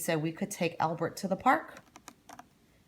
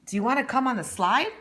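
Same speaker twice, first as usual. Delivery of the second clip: put-on higher, fast bright little girl's question; girl's eager voice; 6 semitones higher, 4 dB louder, faster than usual. Girl inviting the shy boy onto the slide, eager and quick.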